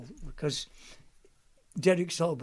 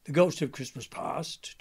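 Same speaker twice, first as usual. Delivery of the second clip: ghost voice. Shown as a demonstration. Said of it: "talk like that".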